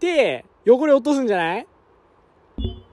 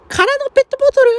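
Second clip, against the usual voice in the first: surprised; 3 dB louder, faster than usual. Real, not acted. Item drops unexpectedly.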